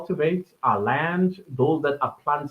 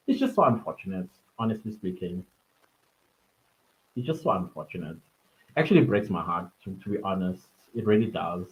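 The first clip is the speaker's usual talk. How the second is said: tearful; 5 semitones lower, 4 dB quieter, faster than usual. Real, not acted. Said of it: "I don't know why I'm getting tears".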